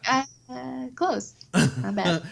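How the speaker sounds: lightly put-on British voice; a hint of a polite Brit; light British accent; mock British judge. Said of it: "You're like".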